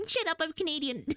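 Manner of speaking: playful indignation. Pretend. Teasing chat about accent.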